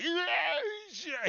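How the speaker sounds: put-on high, loud drunken shout; thug shout. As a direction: yell it sloppily. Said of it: "He's like".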